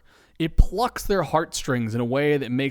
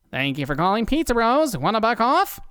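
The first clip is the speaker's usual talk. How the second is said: higher, bright friendly phone greeting; smiling voice; 8 semitones higher, 3 dB louder than usual. Acted. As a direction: answer with a smile. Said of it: "with a smile in his voice".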